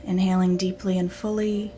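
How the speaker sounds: calm, unhurried meditation guide; guided meditation. Acted. Teacher leading listeners through breath and imagery, guided meditation.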